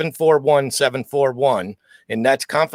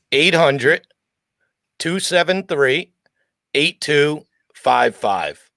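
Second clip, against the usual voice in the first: slow, deliberate, carefully spaced-out delivery. Asked to give the support number out again so listeners can write it down, real slow. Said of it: "give that number out again and do it real slow".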